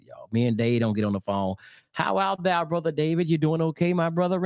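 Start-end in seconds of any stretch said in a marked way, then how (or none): 1.9-4.4 put-on high-pitched parody of old Bible talk; mock hither-and-thou speech. Preacher mocking archaic greetings on the phone, high mock-formal voice. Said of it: "that hither and thou. We don't speak like that".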